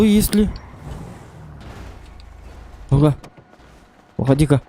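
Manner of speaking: ordinary talk, nothing marked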